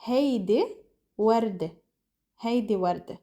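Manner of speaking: "هيدي وردة" as "haydi wardeh"; Lebanese pronunciation. Shown as a demonstration. Teacher building the phrase for learners, Lebanese pronunciation. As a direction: end "وردة" on eh, first apart, then joined. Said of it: "So the word becomes".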